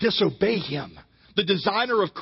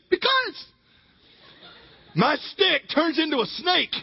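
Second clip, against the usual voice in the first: much higher, timid squeak; a weak little voice making its case; squeaky Moses; 8 semitones higher than usual. Retold or imitated. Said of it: "Maybe he had a real feminine high voice".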